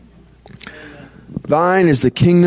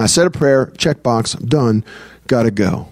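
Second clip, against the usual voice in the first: perfunctory prayer; 4 semitones lower than usual. Retold or imitated. Mimics perfunctory box-ticking prayer.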